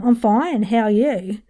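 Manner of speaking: demonstrated Antipodean small talk; Antipodean accent. Shown as a demonstration. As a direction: stretch the vowels in an Antipodean accent. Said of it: "jump over to the Antipodean region".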